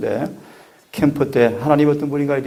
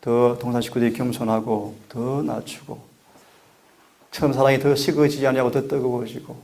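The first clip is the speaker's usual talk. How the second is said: usual speaking voice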